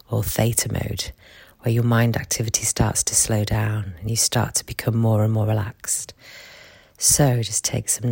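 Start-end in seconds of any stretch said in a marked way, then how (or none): 1.6-6.1 right in your ear. Acted. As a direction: close whispered murmur. Whispered relaxation guidance.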